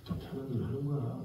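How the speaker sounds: low, hushed voice of a jaded senior; lightly acted, soft, low scolding; imitated insinuating whisper. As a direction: murmur it like a corrupting senior colleague. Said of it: "막 그러면서 속삭이죠".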